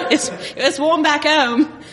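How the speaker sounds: laughing attempt at an Australian accent. Australian visitor missing the warmth of home, Australian accent. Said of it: "what if I were Australian?".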